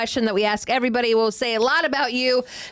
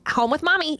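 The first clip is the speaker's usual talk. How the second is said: lightly mimicked toddler, higher pitch; two-year-old; 6 semitones higher than usual. Host imitating a child's video reply, mock toddler voice. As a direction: pipe up like a small child. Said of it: "like, a two-year-old being like".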